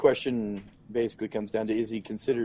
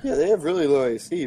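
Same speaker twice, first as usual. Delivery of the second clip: voice cracking; 4 semitones higher than usual. Real, not acted. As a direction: voice cracking, hoarse and ill. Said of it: "I'm sorry for all the voice cracking".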